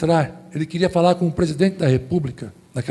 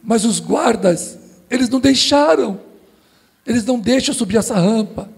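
a touch of a tearful plea, raised pitch; sobbing man; 6 semitones higher than usual. Retold or imitated. Man weeping on the palace ramp begs to see the president, tearful. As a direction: voice the weeping man lightly lifted and pleading. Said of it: "Aquele homem, soluçando".

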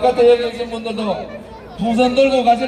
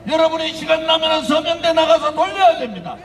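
impassioned rally speech; 4 semitones higher than usual. Real, not acted. Rally speech building to shouts.

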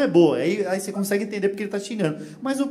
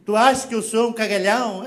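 mock Portuguese argument. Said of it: "o próprio português, eh, discutindo".

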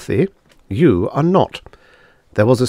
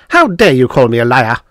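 sharp, louder indignant snap; snapped; 6 dB louder than usual. Acted. Miss Twilly snapping back at the insulting Devi, angry and loud. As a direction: bite it off in outrage. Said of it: "She snapped".

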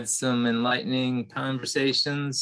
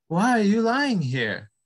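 light, eager little creature; small mouse voice; 8 semitones higher, 4 dB louder than usual. Acted. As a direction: speak up like a timid mouse. Mouse asks, higher.

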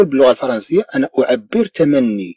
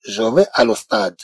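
slow, softer French, marked as wrong; slow wrong form; 3 semitones lower, 4 dB quieter, much slower than usual. Shown as a demonstration. Teacher showing the wrong form to students, slowly. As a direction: say the mistake slowly. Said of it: "لا أقول".

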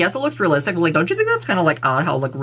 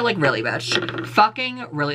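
slow incredulous; slower than usual. Acted. Calling out the copycat girl, slow incredulous. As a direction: draw out really in disbelief.

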